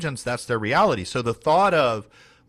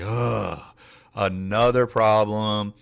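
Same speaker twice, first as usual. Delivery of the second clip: slow, put-upon complaint; lightly acted exasperation; mock weary groan; 3 dB louder, much slower than usual. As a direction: groan it like a fed-up team member. Voices a weary team's groan.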